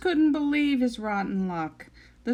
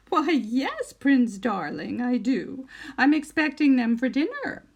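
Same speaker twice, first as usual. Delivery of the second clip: sweet witch voice; 2 semitones higher, 3 dB louder than usual. Acted.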